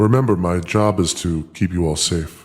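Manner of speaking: terrifying, deep, booming, scary voice. Voicing Nuncio offering cigarettes to the players: terrifying Nuncio voice. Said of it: "I'm feeling very safe right now".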